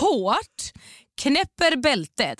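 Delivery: escalating shocked telling; rising outcry. Retold or imitated. Retelling being choked, rising outrage.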